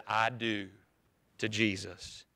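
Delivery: soft, low, tender retelling of her vow; hushed vow. Retold or imitated. Preacher retelling Iris's vow, hushed and tender. Quiet retold vow at close.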